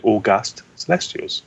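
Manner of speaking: August said aw-GUST, unlike the month; slow, deliberate August, weight on the second syllable; adjective pronunciation. Shown as a demonstration. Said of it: "pronounced like the month".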